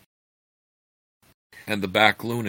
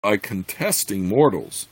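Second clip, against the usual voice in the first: steady storytelling read; story narration; 3 semitones higher than usual. A narrator's reading. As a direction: read it like an audiobook. Reads novel aloud.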